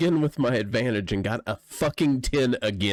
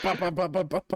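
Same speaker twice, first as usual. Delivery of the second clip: rapid-fire higher-pitched pops; popping impact noises; 6 semitones higher than usual. Shown as a demonstration. Player mimes being pelted with branches, popping noises. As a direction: imitate branches smacking you, pop after pop. Imitates branches pelting the character.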